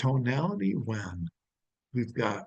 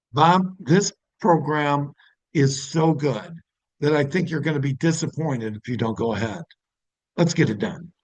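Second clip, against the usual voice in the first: confident closing tone. Shown as a demonstration. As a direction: sell it like you're certain they'll regret passing. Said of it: "Now that's one tone".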